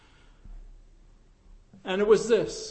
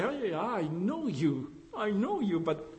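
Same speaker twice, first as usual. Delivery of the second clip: put-on soft, amused aside to an old friend; lightly voiced, hushed teasing; quiet recognition; 2 semitones lower, 9 dB quieter than usual. Pastor mimics meeting old acquaintances.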